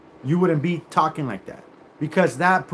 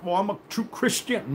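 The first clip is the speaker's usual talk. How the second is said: mock pious; 5 semitones higher, 4 dB quieter than usual. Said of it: "don't come up with".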